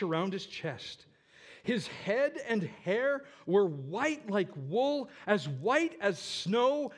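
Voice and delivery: slow, sweeping proclamation of a vision; dramatic scripture reading. Acted. Preacher reads John's vision of Jesus to congregation, dramatic scripture reading. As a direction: draw out each wondrous image.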